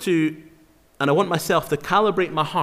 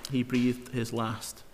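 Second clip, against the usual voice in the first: much softer and slow, letting each word land; slow hushed repeat; 8 dB quieter, slower than usual. Shown as a demonstration. Preacher repeats the verse to let it sink in, slow and hushed. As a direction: say it again quietly, like a solemn echo. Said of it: "Look at verse twenty-three again".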